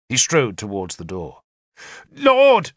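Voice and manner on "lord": high, loud cry of protest; shouted protest. A narrator's reading. Bishop protesting as Arthur leaves, high shout. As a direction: call out in alarm to stop him. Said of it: "Sansom shouted in protest".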